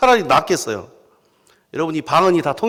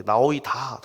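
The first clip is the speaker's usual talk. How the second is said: Yeosu dialect ending; 4 semitones lower, 4 dB quieter, slower than usual. Retold or imitated. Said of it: "여수 말로 그렇게".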